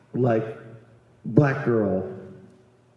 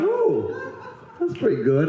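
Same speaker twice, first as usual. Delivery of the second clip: mock delighted; 3 semitones higher than usual. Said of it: "I was like".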